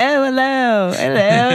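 put-on very high, elderly British grandmother voice. Retelling how a Brit's elderly grandmother greeted the red carpet: imitating an elderly British grandmother. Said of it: "I can't even do it justice without the, the real accent".

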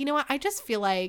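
ordinary delivery

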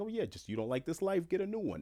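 very high, fast, offhand dismissive brush-off. Telling listeners change is work, voicing how it should not be said; dismissive. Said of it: "in a dismissive tone".

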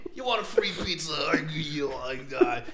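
put-on high, loud, boastful sixty-year-old old-man voice.

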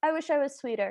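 mock casual, flat, matter-of-fact delivery. Showing the other speaker how she says the line, quoting her flatly, like ordering coffee. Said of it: "She just says it like you would order a coffee".

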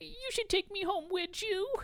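very high-pitched talking-dog voice. Speaker talking to dog owners through their pet, in the dog's voice. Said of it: "That's the dog's voice talking to the girls".

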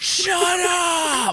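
very high shout, stretched upward and drawn out. Recalling a bit started with crowd noise, imitating Chase yelling. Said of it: "Chase yells".

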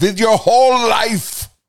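put-on very high voice with Austrian accent. The speaker quotes the woman who taught her, in that woman's Austrian accent. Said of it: "with her accent".

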